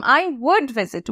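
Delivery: very slow, each word laid out for learners; slow teaching model. Shown as a demonstration. Teacher slowly modelling a sentence for students. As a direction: spell out the sentence slowly for the class. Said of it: "আমি দাদু দিদার সাথে দেখা করতে যেতাম।".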